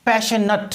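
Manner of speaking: "पैशनेट" with schwa before the final T; adjective "-ate" pronunciation. Shown as a demonstration. Teacher models an adjective for students, "पैशनेट" ending "-nut". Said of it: "तो क्या बोलेंगे?".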